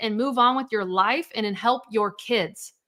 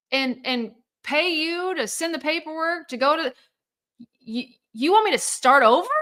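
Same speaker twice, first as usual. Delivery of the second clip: indignant disbelief; 5 semitones higher than usual. Retold or imitated. Indignant retelling to Larry.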